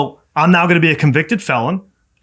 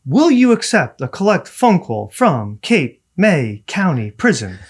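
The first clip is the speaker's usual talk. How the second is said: recorded operator; slower than usual. Retold or imitated. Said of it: "It says".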